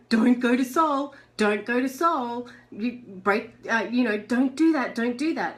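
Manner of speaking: a mock warning from the ego, pushing her back; ego's voice. Her ego warning her away from soul, mild mock warning. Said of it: "That voice is ego saying".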